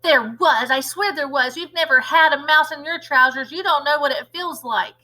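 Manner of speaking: protesting cook. Acted. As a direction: insist it was there.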